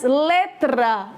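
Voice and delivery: "letra" with both T and R clearly sounded; T e R pronunciados. Shown as a demonstration. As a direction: articulate the T and then the R in "letra". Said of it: "eu pronuncio o T e o R". ("letra" com o T e o R bem pronunciados)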